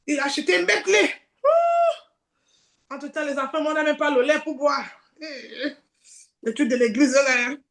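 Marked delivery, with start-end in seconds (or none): 0.1-2.9 mock crying. Mock heartbreak over ex's wealth.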